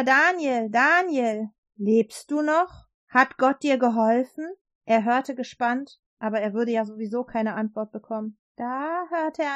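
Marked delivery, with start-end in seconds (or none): 0.0-4.5 calling out. Acted. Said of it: "rief er".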